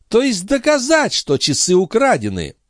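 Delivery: put-on high, taunting old woman; sly old concierge. A narrator's reading. The concierge warning Marat, high and sly. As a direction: turn the threat back on him.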